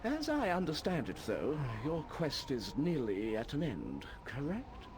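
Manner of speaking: lightly voiced old wizard; old man voice. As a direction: read it as a wise old man. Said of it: "my old man voice".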